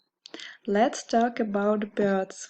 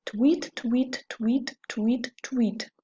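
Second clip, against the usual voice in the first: bird chirp. Acted. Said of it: "appear and say".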